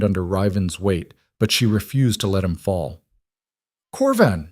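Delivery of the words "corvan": scream. A narrator's reading. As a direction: yell his name for help. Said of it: "she screamed".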